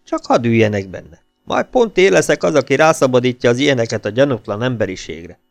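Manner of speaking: lightly voiced odd madman. Pityu's voice in story.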